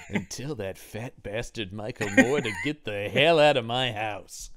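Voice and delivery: lightly voiced grumbling old star; mumbled Heston. Host mumbling at the film as Heston, mock indignant mumble. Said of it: "I just kept mumbling while watching this".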